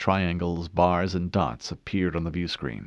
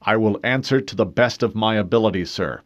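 stiffly; 3 semitones higher, 6 dB louder than usual. Acted. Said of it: "he replied stiffly".

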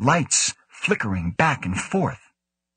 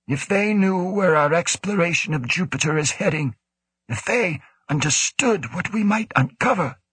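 raised, trailing director voice; brooding director; 10 semitones higher than usual. A narrator's reading. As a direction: let the thought hang, voice raised. Woe broods aloud.

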